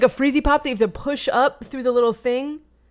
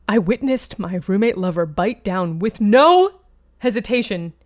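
dramatic monologue. Acted. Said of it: "like a wonderful dramatic monologue".

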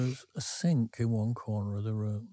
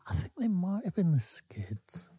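whispered aside; 8 semitones higher than usual. Real, not acted. Unsure muttered guess.

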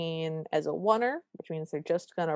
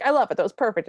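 louder, higher burst of praise; delighted; 4 semitones higher, 5 dB louder, much faster than usual. Retold or imitated. Director gushing about the stunt, delighted. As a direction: gush over the take.

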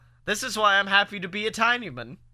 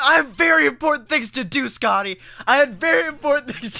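mock self-important; 5 semitones higher, faster than usual. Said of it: "I love the concept".

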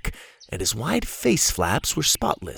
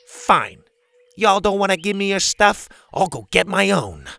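put-on higher, louder huffy girl; huffy Bethany voice; 9 semitones higher, 4 dB louder than usual. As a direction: storm off, indignant and loud.

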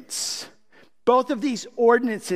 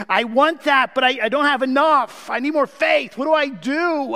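eager plea; 7 semitones higher, 3 dB louder than usual. Retold or imitated. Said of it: "that is a great question".

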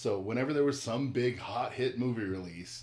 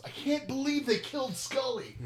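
much higher, slow mock lament; fake outraged fan; 4 dB louder than usual. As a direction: wail it to troll the waiting nerds. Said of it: "and he goes".

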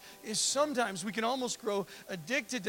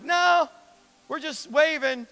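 mock cheerful lepers; 6 dB louder than usual. Lepers mockingly waving at parade.

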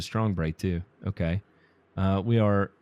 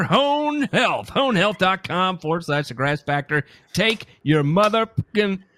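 ad read; 3 dB louder than usual. Acted. Reads the sponsor ad.

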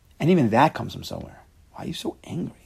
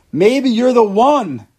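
slow, louder and higher, drawn out; slow mock realization; 10 semitones higher, 9 dB louder, much slower than usual. Teacher mocks the man who blames others, slow and drawn out. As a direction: draw it out as if the thought dawns. Mocking self-deception, slowed.

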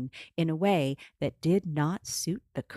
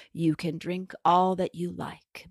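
croaking hag. Acted. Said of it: "the guardian makes her offer".

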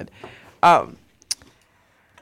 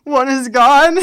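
crying, higher and louder; about to cry; 7 semitones higher, 8 dB louder, slower than usual. Real, not acted. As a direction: voice breaking into tears. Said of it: "I'm gonna cry".

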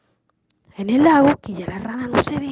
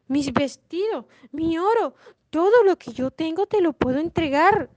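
lightly voiced princess, pitched up; a hint of a storybook princess bargaining; pleading princess; 4 semitones higher than usual. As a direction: offer everything in a higher, pleading lilt. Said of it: "La princesa le dijo".

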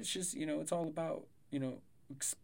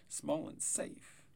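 "Small and safe" whispered slowly; 2 semitones higher, 5 dB quieter, much slower than usual. Shown as a demonstration. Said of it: "repeated softer".

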